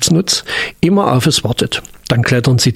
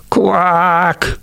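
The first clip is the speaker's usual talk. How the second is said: long drawn-out frog croak, higher; 5 semitones higher than usual. A narrator's reading. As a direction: stretch the quack out in disappointment. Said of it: "langgezogen rief". (langgezogenes, enttäuschtes Quaken)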